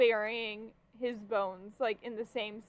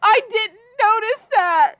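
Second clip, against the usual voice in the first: surprised; 11 semitones higher, 16 dB louder than usual. Real, not acted. Reacting to surprising news.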